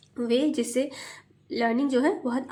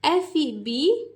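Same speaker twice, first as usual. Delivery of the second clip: slow spelling; 2 semitones higher, much slower than usual. Shown as a demonstration. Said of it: "इसमें हम कैसे पढ़ाएंगे?".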